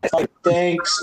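mock Russian agent accent; lightly put-on Russian accent; KGB agent voice. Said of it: "use your K G B agent voice".

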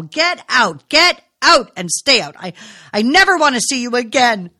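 screaming at her son to get out; shouting. A narrator's reading. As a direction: throw him out of the house at full voice. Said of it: "Nora shouted".

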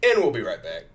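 punchy TV host sign-off; loud announcer. Pretend. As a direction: announce the break loudly. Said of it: "what do we have to say".

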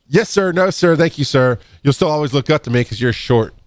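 teasing the shorter boss; mock deference. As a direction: tease while bowing. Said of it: "mock subordinate teasing".

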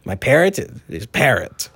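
a hint of the pirate captain; pirate boasting about his ship; lightly voiced pirate. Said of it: "speak to Pirate Briggs".

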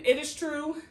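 slow, grand, overblown confession; hammed-up noble declaration; a knight pompously confessing to the queen; mock solemn knight.

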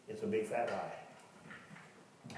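slow, hushed emphasis; slow and soft. Real, not acted. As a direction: let each word drop slowly. Preacher slows for emphasis.

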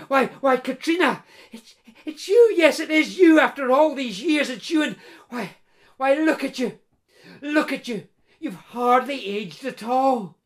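lightly voiced eager man, amazed at her youth; Peter, astonished blacksmith. Blacksmith Peter marvelling to his lost bride Katrina, mild eager wonder.

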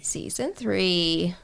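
slow whisper; drawn-out whispered tagline. Acted.

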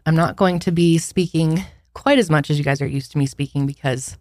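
breathless, short of air; talking while winded, out of breath. Real, not acted. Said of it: "as you can hear, I'm running out of breath".

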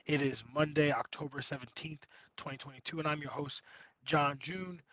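hoarse, raspy voice nearly gone; lost voice. Real, not acted. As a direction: talk through a worn-out, hoarse throat. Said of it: "I have no voice".

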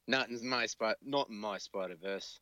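badly faked Australian accent; a wobbly stab at an Australian accent. Tom Hardy with a crowbar to his face, horrible attempted Australian accent. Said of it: "That was an Australian accent".

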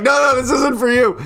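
high, insistent correction; retold calling out. Teller tells ranting friend the honk isn't his, insistent. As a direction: call it out to a mistaken friend. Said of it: "we're screaming so loud".

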